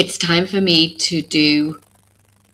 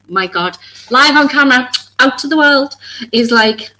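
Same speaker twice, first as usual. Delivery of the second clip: emotional rush; 8 semitones higher, 6 dB louder than usual. Real, not acted. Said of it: "I'm getting so emotional over this".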